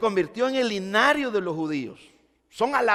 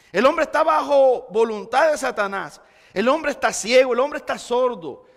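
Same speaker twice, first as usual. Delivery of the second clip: forceful preaching; 4 semitones higher, 4 dB louder than usual. Real, not acted. Preacher hammering a point.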